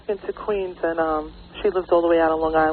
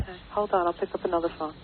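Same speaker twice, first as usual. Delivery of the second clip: whispering on the phone; 6 dB quieter, faster than usual. Real, not acted. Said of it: "Her level is way down".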